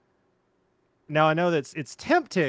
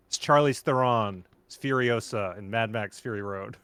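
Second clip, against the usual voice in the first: normal talking voice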